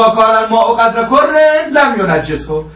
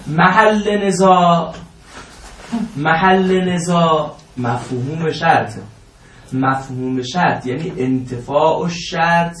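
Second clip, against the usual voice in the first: slow formal statement; 2 semitones lower, 3 dB quieter, slower than usual. Real, not acted. Teacher formally states the thesis.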